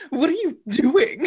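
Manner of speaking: half-hearted disguise voice that slips; bad guard impression. Shapeshifter failing to pass as the guard, bad impression. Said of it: "My impression was so bad".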